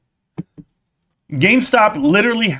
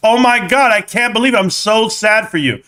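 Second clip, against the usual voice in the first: mock sympathy.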